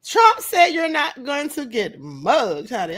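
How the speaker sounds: slow, drawn out, half laughing; slowed, amused. Real, not acted. Vlogger repeating Trump's line slowly, amused. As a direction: spell it out slowly through amusement. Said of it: "I am cracking up right now".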